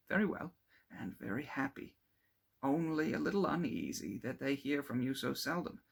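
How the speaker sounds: lightly voiced, brighter young man; chatty and amused, telling his news; cheerful young friend. Clerval telling Victor about persuading his father, cheerful.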